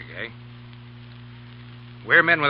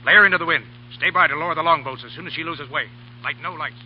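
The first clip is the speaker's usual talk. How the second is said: shipboard orders; 3 semitones higher, faster than usual. Acted. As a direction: bark it across the deck. Captain barking orders on deck.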